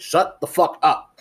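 high, slow irritated retort; mock snap. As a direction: brush her off, mock annoyed. Snapping at girlfriend during draft.

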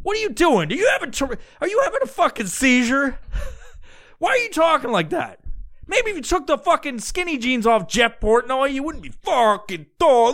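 high-pitched, incredulous rant; hammed-up disbelief, pitch way up; exasperated mock scolding. Scolding an imagined Guido having a seizure, high exasperated rant.

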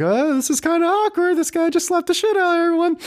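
high, put-on voice of an uneasy onlooker; mock awkward onlooker. Podcaster mocking awkward Oscar guests in a high put-on voice. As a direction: squeak it out like an uncomfortable guest. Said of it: "every white person around the circle was like".

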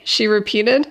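plain reading voice

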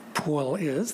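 "Paul" with a broad Long Island vowel, rising on "is"; lightly imitated Long Island "Paul"; Long Island accent. Shown as a demonstration. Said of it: "That's how you say Paul on Long Island".

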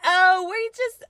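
high-pitched imitated reply; mock innocent reply. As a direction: lift it high as a playful self-imitation. Starts the reply over.

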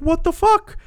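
a sudden high squeal of disgust; startled shriek. Retold or imitated. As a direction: jump out of your skin at the spiders. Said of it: "I'm like".

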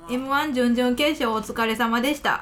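strong Kansai intonation while reading; Kansai accent. Real, not acted. Host reading a listener's radio name, in Kansai accent. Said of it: "バリバリ関西弁で喋ってもうた".

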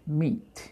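MEAT with the final t released; final T pronounced. Shown as a demonstration. Teacher introducing the word, MEAT with sounded final t. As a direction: finish MEAT on a clear t. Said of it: "pronunciar esa T al final".

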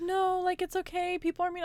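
high, gentle comforting voice; retold reassurance. Kind customer to crying worker, reassuring.

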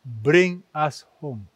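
slow, firm insistence; steady, unbending request to go home. Retold or imitated. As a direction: say it slowly and leave no room to argue. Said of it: "She was very firm".

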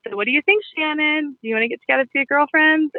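playful. Retold or imitated. Host teasing a guest into hosting a party, lightly playful. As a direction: tease the guest gently into booking a party. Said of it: "I'll kind of say it in a playful way".

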